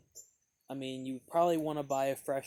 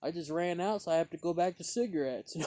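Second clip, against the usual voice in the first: friendly guy; 4 semitones higher, 4 dB louder than usual. Retold or imitated. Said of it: "he goes".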